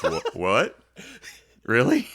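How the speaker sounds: can't believe it, chuckling; laughing disbelief. Retold or imitated. Bandmates react in disbelief.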